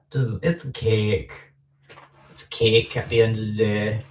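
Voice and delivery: put-on a light northern English accent, cake said short and flat; casual northern English accent. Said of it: "there goes my northern accent".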